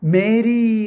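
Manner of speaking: a clearer second call of the name; firmer call. Retold or imitated. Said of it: "എന്നൊരു sound കേൾക്കണേ".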